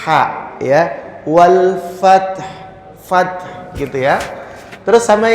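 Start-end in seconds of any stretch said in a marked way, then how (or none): 1.3-3.4 FATH stopped on T with a puff like H; sukun ending. Shown as a demonstration. Teacher showing how to end the verse, aspirated sukun ending. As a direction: close FATH on a vowelless T, releasing breath. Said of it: "taknya disukun terus seolah-olah akan mengucapkan".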